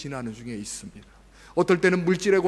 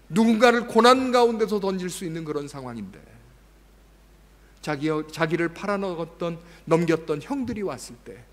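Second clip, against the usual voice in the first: ordinary delivery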